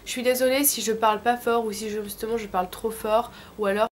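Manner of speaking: speaking with a sore throat; hoarse from a sore throat. Real, not acted. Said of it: "voix dégueu, mais c'est simplement que j'ai une angine".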